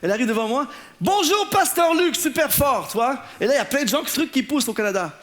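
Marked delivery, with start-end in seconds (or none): 1.0-3.2 put-on excited young woman. Young woman greets pastor.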